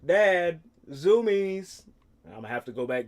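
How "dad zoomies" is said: mock scream. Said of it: "he's gonna be screaming".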